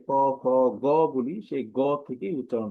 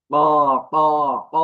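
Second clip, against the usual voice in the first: crow caw; 8 dB louder than usual. Retold or imitated. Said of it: "দাঁড় কাকের মতো".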